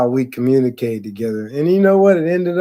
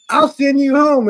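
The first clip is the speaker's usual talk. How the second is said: higher, sharp threat; imitating stern boss; 11 semitones higher than usual. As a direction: threaten to send him home. Boss threatening in front of staff.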